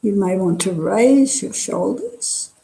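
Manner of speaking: calm body-scan guidance with long pauses between phrases; guided meditation. Real, not acted. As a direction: guide them unhurriedly, leaving space after each phrase. Leads a meditation.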